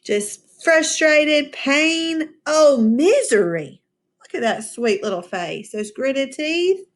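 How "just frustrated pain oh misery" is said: mock anguish. Shown as a demonstration. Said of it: "I would use the word anguish".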